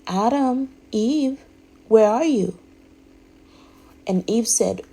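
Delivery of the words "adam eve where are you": high, loud calling voice of God. Retold or imitated. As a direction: call out to them as God. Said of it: "the, God said".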